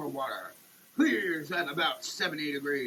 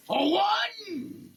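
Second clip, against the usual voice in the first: mock climax; 13 semitones higher, 4 dB louder than usual. Label slogan climax.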